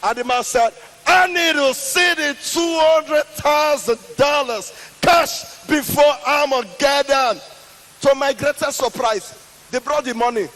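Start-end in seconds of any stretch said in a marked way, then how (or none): 1.1-7.4 high, slow mock yell of the terms; shouting demand. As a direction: yell the price down, slowly. Man yelling down his demand.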